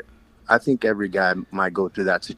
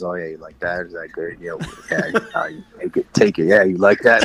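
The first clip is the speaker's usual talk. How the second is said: cheesy bedroom talker; 4 semitones lower than usual. Acted. Podcast guest mocking his own bedroom talk, hammed-up and cheesy. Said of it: "I'm like one of those guys".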